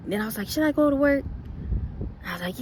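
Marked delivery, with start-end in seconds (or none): 0.5-1.2 doubtful inner voice. Retold or imitated. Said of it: "I went back and forth with myself".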